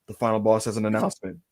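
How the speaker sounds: low, measured, portentous announcement; The Rock. Retold or imitated. Wrestler announcing to the fans, mock-portentous. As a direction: intone it like a self-important star. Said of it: "Rock's gonna be like".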